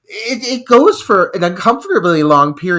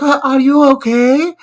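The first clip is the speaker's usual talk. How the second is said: higher mock smoky woman's voice; 10 semitones higher, 6 dB louder than usual. Host imitating the woman checking on him, mock smoky voice. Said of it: "With her smoky voice".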